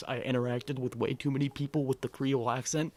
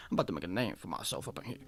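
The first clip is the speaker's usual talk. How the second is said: quick, low Creole Southern twang; mock tough guy in a Creole accent; 6 semitones lower, faster than usual. Mocking Waffle House bravado in a low, fast Creole accent. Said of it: "funny French Southern accent".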